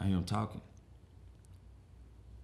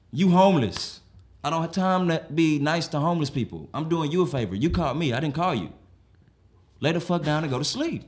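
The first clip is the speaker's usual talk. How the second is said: raised voice, fed-up scolding; irritated telling-off; 3 semitones higher, 6 dB louder than usual. Acted. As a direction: lay down the law to the houseguest. Acted quarrel, scolding homeless friend.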